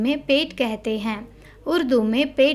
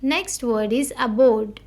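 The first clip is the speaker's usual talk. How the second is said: slow headword reading; slower than usual. Shown as a demonstration. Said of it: "We need to stress on the word".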